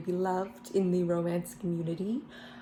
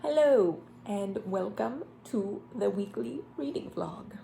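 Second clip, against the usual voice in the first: full voice; 2 semitones higher than usual. Real, not acted. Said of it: "We're back".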